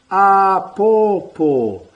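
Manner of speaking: "Āpōpō" very slow, every long vowel held; long macron vowels. Shown as a demonstration. Teacher modelling macrons, very slow and clear. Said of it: "take mental note of the macron".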